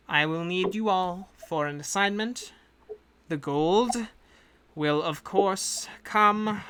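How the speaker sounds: a lightly put-on accent for a composed agent; the employer briefing hired adventurers in her accent; hint of a foreign accent; accent NPC voice. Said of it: "I keep fading in and out of the accent".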